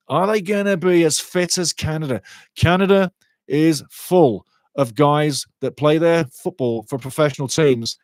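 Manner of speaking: usual speaking voice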